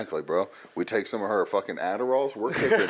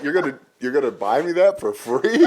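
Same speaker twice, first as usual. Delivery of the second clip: laughing disbelief; 3 semitones higher, 4 dB louder than usual. Real, not acted. Retelling roommate's dare, laughing.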